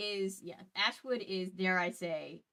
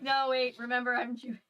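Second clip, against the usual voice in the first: mock Jewish accent; 5 semitones higher, 4 dB louder than usual. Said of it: "my Jewish accent".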